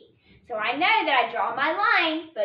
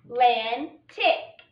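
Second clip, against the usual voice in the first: Atlantic, stretched out slowly, rising at the end; slow blended reading; 3 semitones lower, much slower than usual. Shown as a demonstration. Teacher dividing the word for the class, slow. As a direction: pull "Atlantic" apart gently for listening ears. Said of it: "we're gonna divide this word up".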